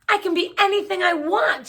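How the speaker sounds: elated thought. A narrator's reading. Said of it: "she thought".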